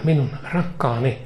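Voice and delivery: loving voice. Acted. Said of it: "hän puhuu toisella äänellä".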